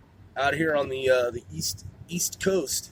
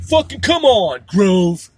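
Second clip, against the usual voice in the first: mock annoyed listener; 5 dB louder, slower than usual. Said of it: "It's like".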